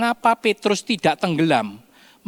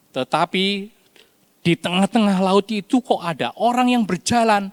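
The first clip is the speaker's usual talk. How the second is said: ordinary delivery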